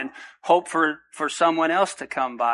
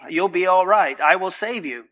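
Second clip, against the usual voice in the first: voice of the Lord; 4 semitones higher than usual. Acted. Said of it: "He says".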